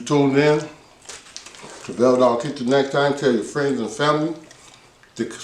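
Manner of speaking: talking with a mouthful of food; mouth full. Real, not acted. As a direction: say it mid-bite, mouth full.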